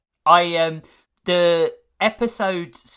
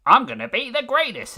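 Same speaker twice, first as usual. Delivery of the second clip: mock bragging; 10 semitones higher, 5 dB louder, faster than usual. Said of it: "One was like".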